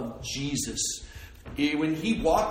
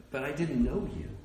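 God's gentle rebuke; 3 semitones lower, 4 dB quieter than usual. Retold or imitated. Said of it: "And God goes".

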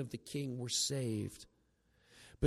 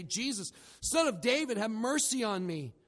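raised, high-pitched plea for mercy; crying out; 6 semitones higher than usual. Retold or imitated. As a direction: call out like a blind beggar in the crowd. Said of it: "he began to cry out".

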